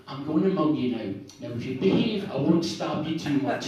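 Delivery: politely voiced northeast Scottish mugger. Northeast mugger addressing the victim, very polite. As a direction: announce a mugging with courteous care. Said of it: "it's very polite".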